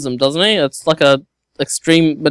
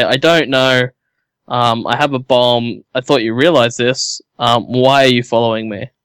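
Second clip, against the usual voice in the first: character voice; 5 semitones lower than usual. Acted. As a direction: speak as the character, lower. In character as bomb carrier.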